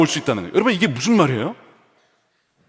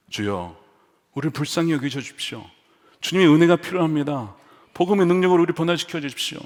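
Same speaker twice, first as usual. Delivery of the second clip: soft, pleading prayer; earnest prayer; 3 dB quieter than usual. Acted. Preacher praying to the Lord for sinners' grace, earnest. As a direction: plead quietly for mercy.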